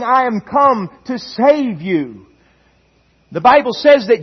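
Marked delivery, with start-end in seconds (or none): 0.0-2.3 voice of love. Acted. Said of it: "I hope you hear a voice of love".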